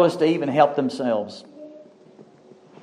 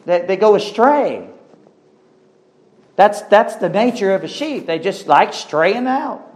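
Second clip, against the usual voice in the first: raised preaching pitch, words stretched at the end; emphatic preaching; 7 semitones higher than usual. Acted. Preacher explains the nature of sheep, emphatic preaching. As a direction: press it on the congregation, voice lifted.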